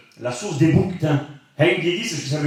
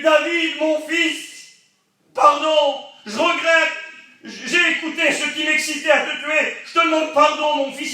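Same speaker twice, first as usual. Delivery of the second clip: tearful apology; 14 semitones higher, slower than usual. Retold or imitated. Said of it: "il s'est mis à pleurer".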